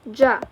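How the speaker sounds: ج as in English "jam"; contrasting sound. Shown as a demonstration. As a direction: say ج as a hard "ja", with a d onset. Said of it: "I mean this sound, not".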